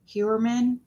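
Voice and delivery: Heuermann begun with a "hyoo" sound; tentative pronunciation. Shown as a demonstration. Vlogger guessing at a man's surname, tentative pronunciation of Heuermann. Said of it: "I guess you pronounce it".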